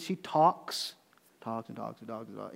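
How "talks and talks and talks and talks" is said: much softer, lower run-on patter; mock endless chatter. Preacher joking that she talks on and on, mock chatter. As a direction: drop it to an under-the-breath aside.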